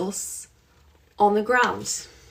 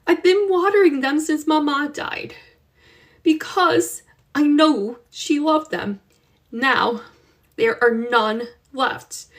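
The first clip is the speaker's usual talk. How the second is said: slow, sad explaining; 6 semitones higher than usual. Acted. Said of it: "Slowly, Josefina explained".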